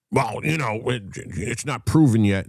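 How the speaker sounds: high, stammering imitation of an objector; mock protest. Mimicking the man's flustered objection.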